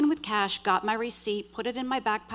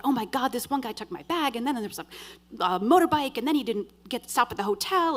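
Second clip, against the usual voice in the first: higher, stumbling retold outburst; tumbling out, flustered; 4 semitones higher than usual. Woman telling colleague her story, flustered. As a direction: let the words tumble out, tripping over them. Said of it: "It all tumbles out".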